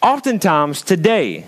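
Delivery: slow, weighted scripture reading; measured sermon emphasis; deliberate preaching. Acted. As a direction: spell it out slowly for the congregation. Preaches the verse.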